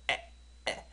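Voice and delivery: 에 as a very short, separate burst; quick isolated 에, repeated after a pause; short vowel. Shown as a demonstration. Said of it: "짧은 에 발음".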